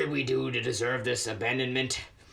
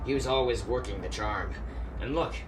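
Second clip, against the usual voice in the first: quiet, sad; 3 semitones lower, 4 dB quieter than usual. Acted. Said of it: "made you suddenly quiet".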